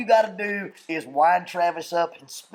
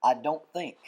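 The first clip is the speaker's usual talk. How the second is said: low, softer, measured quote; restrained composure; 5 semitones lower, 5 dB quieter than usual. Retold or imitated. Friend quoting him stuck on a stump in a swamp, restrained composure. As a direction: imitate him keeping his composure. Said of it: "that's as excited as he got".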